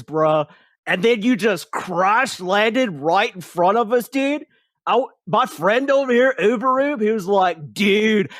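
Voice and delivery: high, loud, lazy stoner elf voice. Acted. Elf explaining to the fallen hero, high stoner voice.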